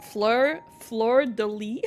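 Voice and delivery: "fleur de lis" said slowly the English way, flur de lee. Shown as a demonstration. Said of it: "in English you say".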